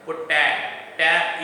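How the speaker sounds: "pota. Ta" with TA punched; stress on middle syllable. Shown as a demonstration. Teacher showing students where potato is stressed, "ta" stressed. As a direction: lean hard on the "ta" in "pota. Ta". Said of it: "the middle syllable is stress".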